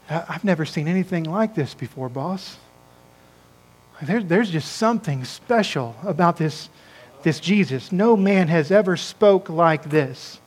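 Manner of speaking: hushed confession. Retold or imitated. Guard admits to his boss, soft and awed. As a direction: tell the boss quietly, in awe.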